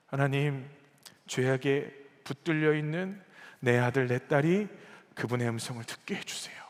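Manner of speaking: contained, earnest intercession; restrained plea. Acted. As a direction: plead gently, in short weighted phrases. Voicing God's plea, first restrained.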